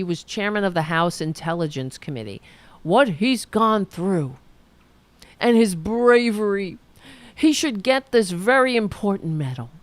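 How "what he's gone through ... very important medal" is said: a mild, louder mock Trump; lightly pompous mock of Trump praising Nunes; imitating Trump. Mocking how Trump praises Nunes, mildly louder. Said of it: "Trump says that".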